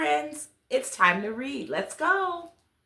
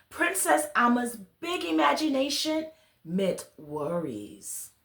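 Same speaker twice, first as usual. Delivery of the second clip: put-on gentle storybook reading to children; story narration; 2 semitones higher than usual. A narrator's reading. Reader telling children a bedtime story, gentle storybook narration. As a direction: read it like a bedtime tale to little listeners. Reads picture book aloud.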